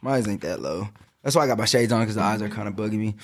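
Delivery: high and mellow; stoned. Real, not acted. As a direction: talk like you're baked. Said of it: "I'm still high as fuck right now".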